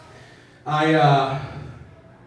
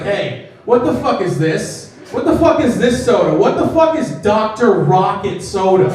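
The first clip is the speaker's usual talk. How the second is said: angry Dr Pepper guy; 4 semitones higher, 3 dB louder than usual. Retold or imitated. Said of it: "he's like".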